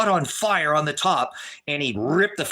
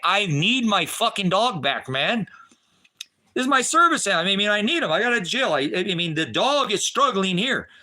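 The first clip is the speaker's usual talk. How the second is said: raised, urgent begging for the dog; pleading; 4 semitones higher than usual. Retold or imitated. To the guy holding his dog, a raised, desperate plea.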